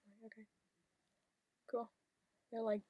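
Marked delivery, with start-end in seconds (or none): 0.3-1.9 deadpan, indifferent acknowledgement; emotionless. Acted. Replying to a friend's news, emotionless. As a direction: give them no reaction at all. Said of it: "you're so fucking emotionless".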